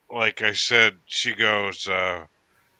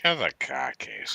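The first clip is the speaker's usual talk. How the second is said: Boston accent; 5 dB quieter than usual. Shown as a demonstration. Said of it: "Khakis to you are car keys?".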